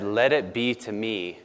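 a hint of humble Mary speaking; quiet surrender. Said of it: "And she said".

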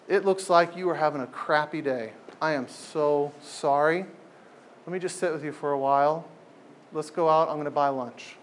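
lightly voiced, gently sorry and kind. Comforting a hurting friend.

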